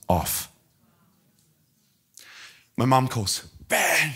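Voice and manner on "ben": a held-back mock scream; imitated mother's scream. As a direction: call the name as a distraught mother, without full volume. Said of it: "she's screaming".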